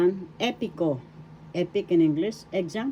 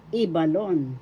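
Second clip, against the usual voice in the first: "Ibalon" with the accent on the opening "I"; accent the "I" that begins "Ibalon"; stress on first syllable. Shown as a demonstration. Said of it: "syllable is where the accent is".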